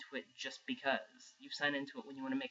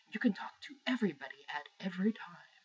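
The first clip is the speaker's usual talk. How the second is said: breathy, half-whispered mock sales pitch; mocking presenter's hype; 3 semitones higher, faster than usual. Gamer imitating console presenters' social pitch, mock breathy hype. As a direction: parody a presenter droning on about sharing. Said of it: "when you go on and on and on about".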